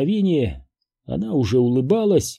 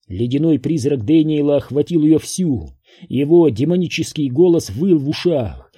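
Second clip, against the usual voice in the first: ordinary delivery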